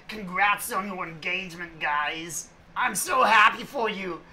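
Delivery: slow, careful mock Asian accent. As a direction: stretch the words out in an Asian accent. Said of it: "now I'm sounding more Asian".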